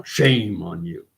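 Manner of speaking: slow quoted rebuke, "shame" drawn out; imitated scolding. Quoting the Montana legislator, drawn-out scolding. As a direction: stretch out a mock reproach.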